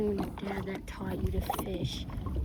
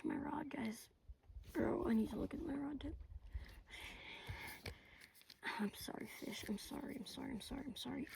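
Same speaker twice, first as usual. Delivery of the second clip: whispered apology; 4 semitones higher, 9 dB quieter than usual. Real, not acted. Whispering near a caught fish.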